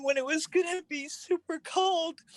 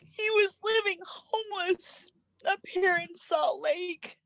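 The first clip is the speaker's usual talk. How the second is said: crying; 5 semitones higher than usual. Real, not acted. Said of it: "I've been crying".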